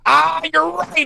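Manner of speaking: high, slow, drawn-out "ah" of getting it; sudden realization. Retold or imitated. Fighter realises his wife is right, high and slow. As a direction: let it dawn on you, then accept.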